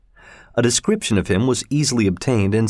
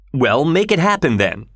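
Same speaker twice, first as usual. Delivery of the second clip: shouted; 5 semitones higher than usual. Acted. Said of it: "shouted Mister Stewart".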